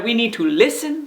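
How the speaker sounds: "listen" picked out at the end; stress on LISTEN. Shown as a demonstration. Teacher reminding friends for this week, stress on "listen". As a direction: lean on "listen". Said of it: "when you stress a different word".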